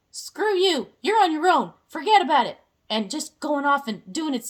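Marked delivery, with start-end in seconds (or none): 0.1-2.6 brush-off universe. Pretend. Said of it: "And universe is like".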